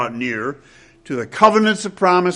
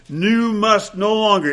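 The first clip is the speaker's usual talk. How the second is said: "must" leaned on, higher, falling away; emphatic stress; 6 semitones higher than usual. Retold or imitated. Preacher quoting Paul's command, emphatic stress on "must". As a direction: give "You must no longer" a firm emphatic push.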